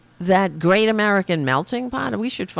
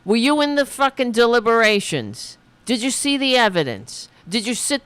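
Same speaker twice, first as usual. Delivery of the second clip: raised, furious questions hurled at the screen; angry yelling; 5 semitones higher than usual. Real, not acted. Yelling back at clip speaker.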